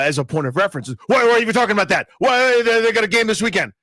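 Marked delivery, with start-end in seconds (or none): 1.1-3.7 annoyed outburst. Retold or imitated. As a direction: fire it off like an irritated fan. Mocking dismissive fans.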